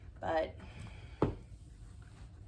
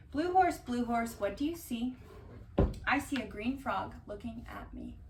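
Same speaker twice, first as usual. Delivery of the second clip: put-on reading to children; 3 semitones higher than usual. Reading picture book aloud.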